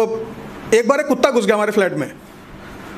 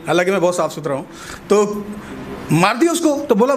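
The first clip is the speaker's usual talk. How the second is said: ordinary delivery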